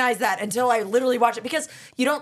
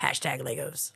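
whisper; 7 semitones lower, 8 dB quieter than usual. Real, not acted. Whispered joke hashtag.

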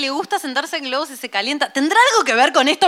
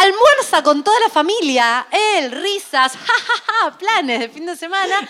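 laughing while telling; 4 semitones higher, 4 dB louder, slower than usual. Real, not acted. Relata almuerzo familiar entre risas.

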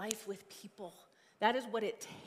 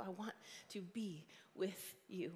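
whispering; 7 dB quieter than usual. Real, not acted. Whispered tender aside.

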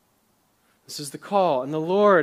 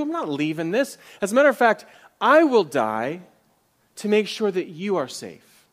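higher, louder insistent promise; fervent pledge; 4 semitones higher, 7 dB louder than usual. Retold or imitated. Pastor voicing Ruth refusing to leave Naomi, fervent. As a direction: plead it with full conviction. Ruth's pledge voiced emphatically.

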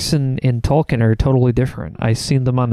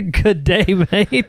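mock Australian; 4 semitones higher, slower than usual. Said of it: "sound Australian".

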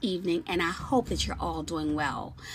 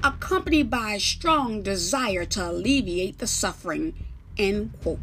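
formal bailiff; 2 semitones higher, 6 dB louder than usual. Acted. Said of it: "The bailiff says".

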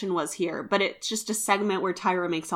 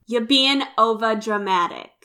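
lightly voiced impression of a castmate; Bianca; 2 semitones higher, 3 dB louder than usual. Co-host tries a castmate's voice on the complaint, light impression. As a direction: try on her accusing voice, lightly. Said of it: "What's Bianca's voice?".

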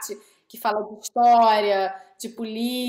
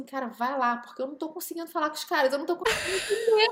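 marido pedindo socorro; 4 semitones higher than usual. Retold or imitated. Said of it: "entrou no quarto e falou assim".

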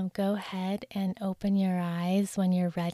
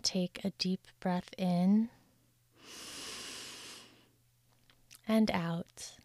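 guided meditation. Acted. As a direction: lull the listener into calm.

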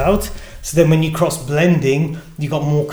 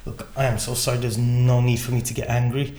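soft, lower, contrite; imitated apology; 5 semitones lower, 7 dB quieter than usual. Colleague back from a cigarette break, retold quiet apology.

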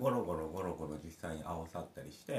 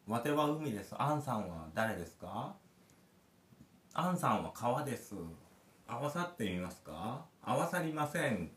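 sing-song Kansai 'wate' and 'ansan' with polite questions, higher; mock Kansai dialect; 4 semitones higher than usual. Dad acting out sea and river players, mock Kansai. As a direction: play both sides of the merging game in Kansai-ben. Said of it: "関西弁で言うのがポイント".

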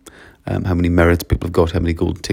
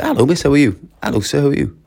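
lilting, higher-pitched polite hello; courteous greeting; 7 semitones higher, 3 dB louder than usual. Acted. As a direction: greet a caller with lifted courtesy. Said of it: "It's just a sign of courtesy".

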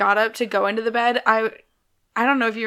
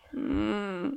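imitated sleepy hum; 3 semitones lower, 11 dB quieter than usual. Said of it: "And you'd go".

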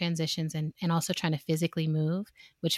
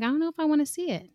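fast exasperation; 9 semitones higher, much faster than usual. Retold or imitated. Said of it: "I'm like".

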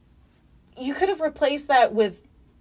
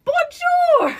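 mock shout; 6 dB louder than usual. Mocking a language-lesson video.

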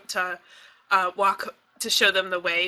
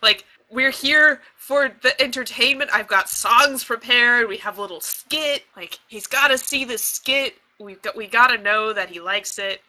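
freaking out; 2 semitones higher, 6 dB louder than usual. Acted. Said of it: "I'm freaking out".

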